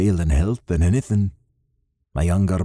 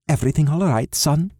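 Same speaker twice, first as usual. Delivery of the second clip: higher, caring mother's question; 6 semitones higher, faster than usual. Acted. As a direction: ask gently, like a mum. Mother checks on her son.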